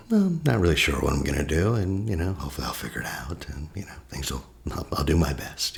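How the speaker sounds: mild, casual shrug in the voice; easygoing uncertainty. Acted. Calm realistic self-talk contrasted with urgency.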